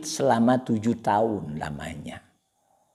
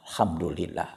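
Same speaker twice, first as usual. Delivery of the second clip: grateful prayer; 3 semitones lower, 4 dB quieter than usual. Acted. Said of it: "dia akan mengatakan".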